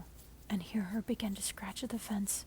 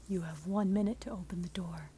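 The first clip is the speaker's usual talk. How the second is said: 1 cold demand; 3 semitones lower than usual. Acted. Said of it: "he demands again".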